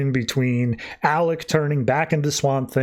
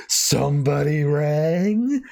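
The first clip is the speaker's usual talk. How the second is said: very slow, stretched question, rising at the end; drawn-out entrance line; much slower than usual. Retold or imitated. Spectre answering a call for an act of God, drawn out. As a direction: draw it out like a summoned spirit announcing itself.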